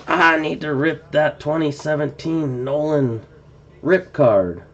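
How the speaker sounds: lightly voiced old man; a hint of an old man, barely changed. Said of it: "that was a horrible old man voice".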